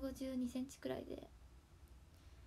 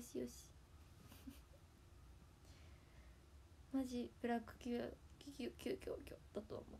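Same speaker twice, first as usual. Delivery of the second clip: softer, unvoiced laughing whisper of ブラック企業; laughing mutter; 9 dB quieter than usual. Real, not acted. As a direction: breathe ブラック企業 out under a laugh. Muttered to herself through laughter. (笑いながら小声でつぶやく)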